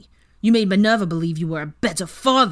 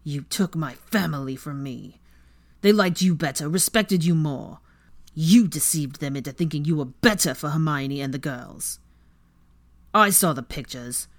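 Weasley snarls at Draco, louder as he goes; angry snarl; 4 dB louder than usual. Acted. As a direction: snarl every word with hatred. Weasley's hate-filled rant.

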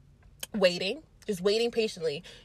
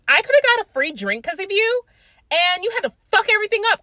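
mock scolding; 11 semitones higher, 7 dB louder, faster than usual. Friend scolding narrator.

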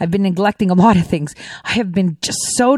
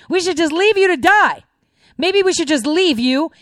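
higher mocking repeat, leaning on leave; mocking critics of Trump, higher sarcastic jab; 6 semitones higher than usual. Real, not acted. Sarcastic repeat of leave you to die.

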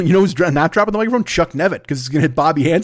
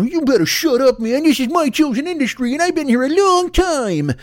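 put-on much higher, old-time tough-guy voice; Bowery Boys tough guy; 10 semitones higher than usual. Irrational inner guy warning a tweeter off, Bowery Boys style. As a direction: bristle like a Bowery Boys street kid. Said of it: "I sound like one of the Bowery Boys".

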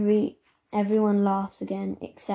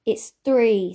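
a touch of indignation, a bit louder; indignant; 2 semitones higher, 6 dB louder than usual. Acted. Zelda correcting the boy about wishes, mildly indignant. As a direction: insist on it, mildly put out. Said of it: "says Zelda indignantly".

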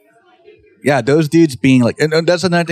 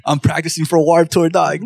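joking; 3 semitones higher than usual. Pretend. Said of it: "I'm kidding".

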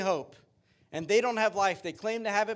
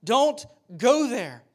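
very slow, high, loud begging; yelled plea; 5 semitones higher, 7 dB louder, much slower than usual. Retold or imitated. Preacher voices Paul yelling at loved ones, loud drawn-out plea. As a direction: yell it out word by word, imploring. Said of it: "He is yelling at them".

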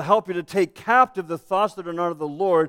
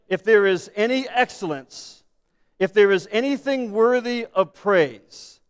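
slow, loud reading aloud in measured phrases; slow scripture reading; 5 dB louder than usual. Real, not acted. Pastor leading congregation reading scripture together, slow and deliberate. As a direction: lead a group reading, phrase by phrase. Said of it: "I'm gonna read it slowly".

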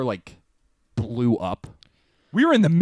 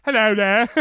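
higher mock British greeting; silly British accent; 4 semitones higher than usual. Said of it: "gone from sexy to silly".

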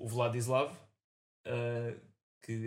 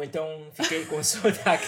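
put-on German vampire accent; 4 semitones higher, 9 dB louder than usual. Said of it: "fui mordido por vampiro alemão".

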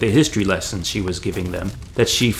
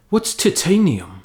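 higher, slow, puzzled voice; puzzled hobbit; 9 semitones higher than usual. A narrator's reading. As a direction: ask slowly, a bit lost. Sam voiced confused.

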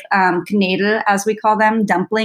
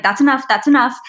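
grandma's voice; 5 semitones higher than usual. Retold or imitated. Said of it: "Like, I hear her".

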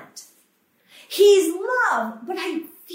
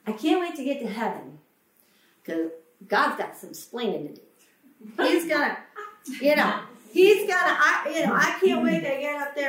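mocking flippant believer. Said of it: "I hear people say all the time".

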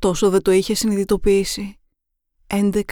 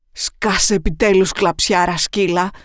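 louder, contemptuous bark; harsh snap; 4 dB louder than usual. Acted. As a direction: cut her off with cold anger. Killer silences chained victim.

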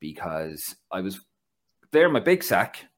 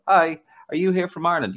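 imitating Greek fan; 8 semitones higher, 7 dB louder than usual. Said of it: "He came up and goes".

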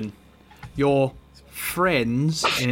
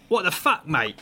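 Dick Fingers outburst; 5 semitones higher than usual. Acted. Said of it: "He's like".

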